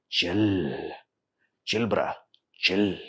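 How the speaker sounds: soft, low laid-back chill; mock chill. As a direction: say it all relaxed. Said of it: "They have to be like".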